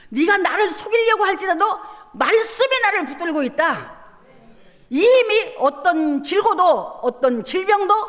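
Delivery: declaring. Retold or imitated. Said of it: "박수를 치면서".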